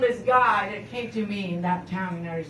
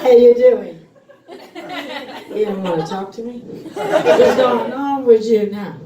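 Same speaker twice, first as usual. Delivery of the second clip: loud call-out; 7 dB louder than usual. Real, not acted. Talking to audience member.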